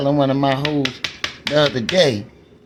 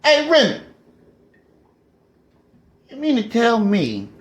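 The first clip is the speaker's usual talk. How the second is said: high, shocked comic sketch voice; shocked character voice; 6 semitones higher than usual. Acted. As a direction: play the stunned brother finding out. Character voice reveal.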